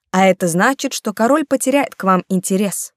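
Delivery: tender. Acted. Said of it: "ласково сказал он".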